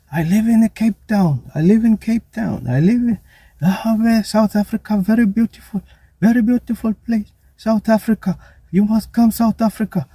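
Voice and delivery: high, put-on Arab-accented tourist voice; Arab accent impression. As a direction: mimic an Arab visitor gushing about Cape Town. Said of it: "guy sounded like Arab".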